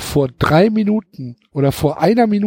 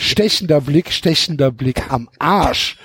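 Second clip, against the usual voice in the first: 1 mocking; 4 semitones lower than usual. Real, not acted. Mocking the cliché description.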